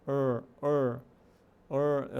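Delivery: ER as one long American "errr"; prolonged R. Shown as a demonstration. Teacher isolating a sound Portuguese lacks, prolonged R. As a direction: hold the r-colored vowel in each ER. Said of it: "é um R mais prolongado".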